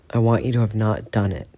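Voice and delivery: rough, gravelly repeat. Acted. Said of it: "voice gravel".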